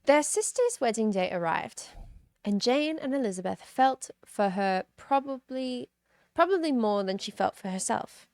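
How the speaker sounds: lightly put-on British reading voice; British accent. Streamer reads chapter nine for a viewer's request, British accent. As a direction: read the novel in a British accent. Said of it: "start off in a British accent".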